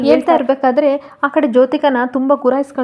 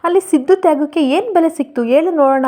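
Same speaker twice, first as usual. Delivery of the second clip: mild angry scolding, building at the end; a lightly voiced angry rebuke. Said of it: "ಕೋಪ ಮಾಡ್ಕೊಂಡು ಪಾರಿಜಾತನ ಬೈತಾ". (ಸ್ವಲ್ಪ ಕೋಪದಿಂದ ಬೈಯುವುದು)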